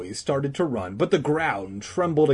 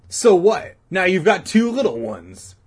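put-on excited boy; 8 semitones higher, 8 dB louder than usual. A narrator's reading. Boy teasing friend.

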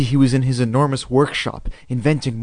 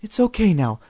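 higher, gentle mom voice; soothing; 7 semitones higher than usual. A narrator's reading. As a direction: soothe a frightened child, lightly pitched up. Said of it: "Mom said soothingly".

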